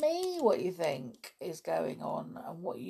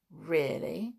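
politely; 2 semitones lower than usual. Acted. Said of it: "said the boy politely".

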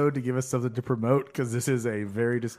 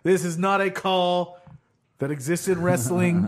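lightly acted referee's objection, a bit higher; Bernie Sanford; 4 semitones higher, 3 dB louder than usual. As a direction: protest the call in a mildly mock-outraged way. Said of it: "Bernie gets up and says".

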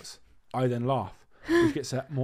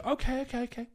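acted flustered compliance; 11 semitones higher than usual. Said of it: "I'll go".

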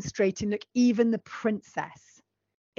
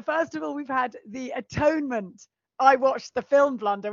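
higher, grandly mock-outraged declaiming; hammy stage actor; 4 semitones higher than usual. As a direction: overact the indignation on stage. Mock-outraged theatrical tirade.

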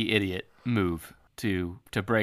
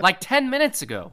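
high-pitched comic indignation; hammed-up exasperation; mock outrage; 11 semitones higher than usual. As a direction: drive the point home in disbelief, pitched way up. Mock outrage at too-quick forgiveness.

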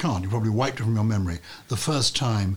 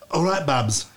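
higher, imitated Brummie greeting; attempted Birmingham accent; 4 semitones higher, slower than usual. Shown as a demonstration. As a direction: have an unsure go at Brummie. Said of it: "I can't do a Birmingham ac".

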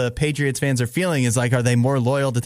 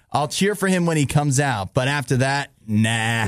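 put-on amateur New York mafia-guy accent. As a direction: play a mob boss from New York, lightly. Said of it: "sound like a mad mafia guy from New York".

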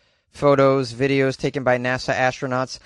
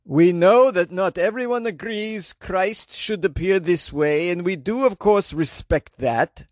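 put-on slow, higher old Jewish man; 4 semitones higher, slower than usual. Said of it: "I made the church representative sound like an old Jewish man".

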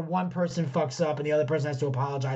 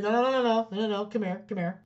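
correcting teacher; 5 semitones higher than usual. Retold or imitated. Teacher stops pupil to correct him.

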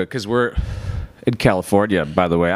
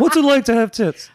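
high-pitched, hammed-up eager questioner; mock interviewer; 13 semitones higher than usual. Host mocking his own views-hungry questions, hammed-up interviewer.

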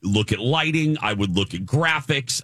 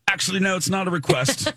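higher, lightly put-on British accent, dismissive; a hint of a curt British set guy; 9 semitones higher than usual. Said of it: "he was so dismissive".

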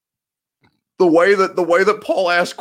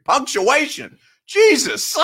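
laughing; 12 semitones higher, slower than usual. Real, not acted. Laughing at blanking on a word.

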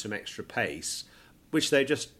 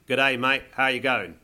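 broad Aussie greeting, louder; Australian accent; 2 semitones higher, 5 dB louder than usual. Shown as a demonstration. Host demonstrates the famous Australian phrase, in an Australian accent. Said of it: "in an Australian accent".

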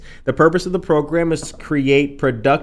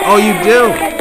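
mock surprise; 6 semitones higher, 8 dB louder than usual. Real, not acted. Host reacts to cheering listener.

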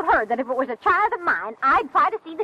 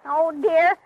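normal talking voice

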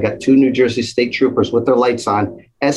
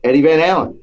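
lightly acted phone greeting, pitched up; higher voice, introducing yourself to someone on the phone; a rock guitarist; 6 semitones higher than usual. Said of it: "he takes the phone. He's like".

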